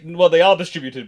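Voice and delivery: ordinary talk, nothing marked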